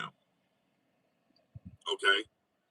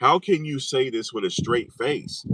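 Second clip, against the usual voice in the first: usual speaking voice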